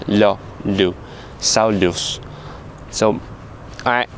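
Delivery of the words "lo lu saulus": Lo, lu said with a straight soft L. Shown as a demonstration. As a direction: demo the straight L. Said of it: "I just go straight".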